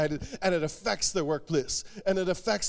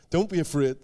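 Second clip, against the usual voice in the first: gentle, with a laugh; 3 semitones lower than usual. Retold or imitated. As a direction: say it kindly through a little laugh. Jesus voiced, comforting.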